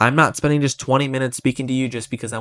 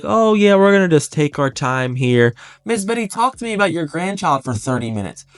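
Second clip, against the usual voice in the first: mock lazy agent; 5 semitones higher than usual. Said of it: "that's not your mindset".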